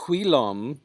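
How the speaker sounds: "whilom" with the i as an ee sound; Middle English vowel. Shown as a demonstration. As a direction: say "whilom" as "hwee-lom". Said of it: "E sound if it's just the single I".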